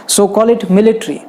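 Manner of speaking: military said slowly, MIL-i-tree with a clear i; correct pronunciation. Shown as a demonstration. Teacher sums up the right way to say military. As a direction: call it military, slow and deliberate. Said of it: "you cannot say military".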